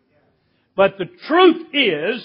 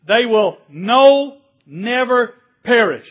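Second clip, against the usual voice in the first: drawn-out, louder "no", then "never perish"; slow, weighty stress on "no", separate from "never"; very emphatic; 3 dB louder than usual. Retold or imitated. Preacher quoting Jesus's double negative, very emphatic on "no, never". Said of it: "Make it very emphatic".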